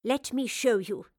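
slow, knowing invitation through a grin; teasing, drawn-out promise; mischievous grin. Acted. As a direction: savour it with mischief. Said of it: "the professor grinned".

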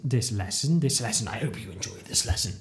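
low, softening scripture-like recital; mock Bible phrase. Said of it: "trying to make some sort of Bible phrase".

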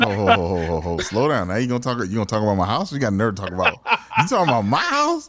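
high, laughing, mock-offended; laughing protest. Real, not acted. Host laughing at friends mocking his house. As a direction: laugh it off then push back.

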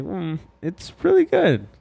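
slow, high, put-on voice; acted quote. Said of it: "I was like".

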